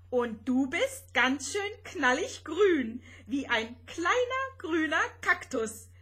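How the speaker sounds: high, loud playful comeback; giggly teasing back. A narrator's reading. Rosetta teasing green Vanya in return, giggly. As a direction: tease right back, voice climbing high. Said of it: "kicherte Rosetta zurück".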